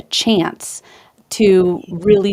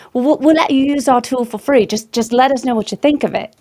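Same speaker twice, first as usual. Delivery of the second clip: put-on Australian accent; 3 semitones higher than usual. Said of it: "you did such a great impersonation, Australian accent".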